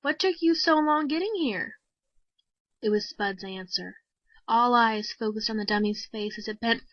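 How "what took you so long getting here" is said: higher, louder stage banter; a hammed-up emcee teasing the act; bright emcee patter to the crowd; showman announcer. A narrator's reading. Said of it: "said the announcer".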